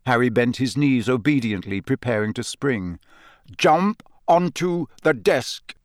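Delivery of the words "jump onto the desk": drawn-out hypnotic order; slow echoing command. A narrator's reading. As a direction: call it from far inside his head. Command repeated.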